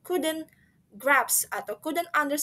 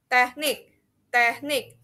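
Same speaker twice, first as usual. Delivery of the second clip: "teknik" level on TEK, raised on NIK; flat then higher; 4 dB louder than usual. Shown as a demonstration. Teacher drills end stress, "teknik" flat then higher. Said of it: "flat and then higher sound".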